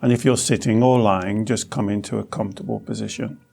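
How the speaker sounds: calm, unhurried meditation guide with long pauses; guided meditation. Acted. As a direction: lead the listener gently through the body. Leads a guided body-scan meditation.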